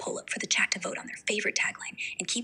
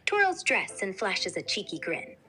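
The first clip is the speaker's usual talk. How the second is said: put-on Colombian-accented English; flirty paisa accent, speaking English; English with a lilting Colombian accent; Medellín accent in English; 2 semitones lower than usual. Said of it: "Speak with an English, English but the Medellin accent".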